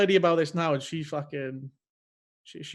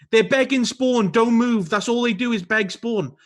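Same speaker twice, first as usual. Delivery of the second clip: mock shouted call-outs, slightly raised; retold screamed call-outs; 4 semitones higher, 4 dB louder than usual. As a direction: imitate an opponent calling out loudly, higher pitched. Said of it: "he's screaming call-outs".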